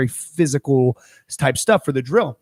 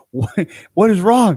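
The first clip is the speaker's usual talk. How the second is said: slow puzzled what; 7 semitones higher, 4 dB louder than usual. Retold or imitated. Confused quote, slowed.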